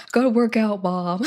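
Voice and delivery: a hint of a gruff gym bro; mock gruff voice. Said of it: "That's not how I sound".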